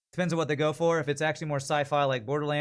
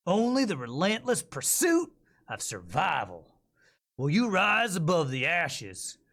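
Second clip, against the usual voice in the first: faster Texas accent. Shown as a demonstration. Voice actor retakes the game ad with a slightly faster Texas accent. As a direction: keep the Texas grit but push the pace a little. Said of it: "So maybe a little faster Texas accent?".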